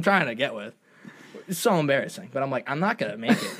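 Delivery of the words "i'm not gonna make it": laughing. Real, not acted. Laughing at embarrassing moment.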